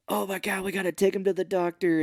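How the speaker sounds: high-pitched hammed-up alarm; urgent, pretend fluster; mock panic. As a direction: retell it as a panicky cry. Acted panic over injured man.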